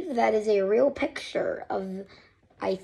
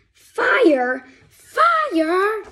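loud cry, rising much higher; alarmed shout; 8 semitones higher, 7 dB louder than usual. Acted. Reader voicing the crash alarm, panicked shout. Ship fills with smoke.

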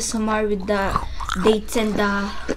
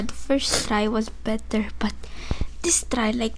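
whispering; 6 dB quieter than usual. Real, not acted. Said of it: "your whisper voice".

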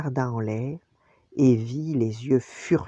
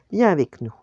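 raised, inviting call; 3 semitones higher, 6 dB louder than usual. A narrator's reading. Father inviting Nala along, calling out. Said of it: "l'appela-t-il".

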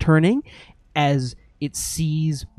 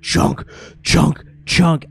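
lightly voiced machine chunks; 2 semitones higher, 4 dB louder, slower than usual. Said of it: "machine moving forward".

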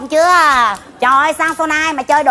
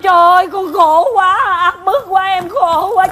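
high, loud hammed-up sobbing lament; mock wailing; 4 semitones higher, 4 dB louder than usual. Daughter hams up crying before the village court, high and loud. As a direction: cry out theatrically over your hardship. Daughter wails about her hardship.

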